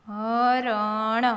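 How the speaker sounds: slow, each letter held; sounded out. Shown as a demonstration. Teacher breaking a word down for learners, sounded out. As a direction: stretch હરણ out as ha-ra-na.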